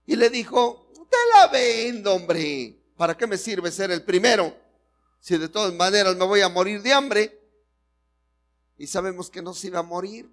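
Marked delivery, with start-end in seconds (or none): 0.9-7.4 higher, loud desperate plea; desperate Esaú. Acted. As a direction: give it away like a starving man. Desperate Esaú sells his birthright. (Esaú desesperado, más agudo y fuerte)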